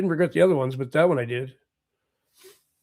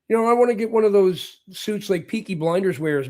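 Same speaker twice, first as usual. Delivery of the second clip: whisper; 2 semitones higher than usual. Real, not acted. Confiding about wanted suit.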